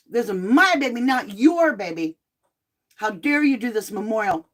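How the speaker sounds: mildly heated mock protest, stressed opening; upset grandma, imitated. Grandmother confronting the babysitter, mildly mock upset. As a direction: imitate an indignant grandmother staking her claim. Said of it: "I'm sure she's upset".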